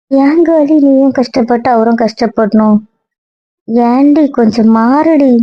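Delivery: slow, stretched-out plea; drawn-out imploring. Acted. Friend begs her to change and stop suffering, slowly imploring. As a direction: draw out the words as you implore.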